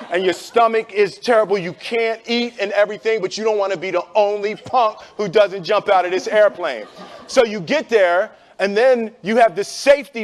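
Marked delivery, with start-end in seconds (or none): none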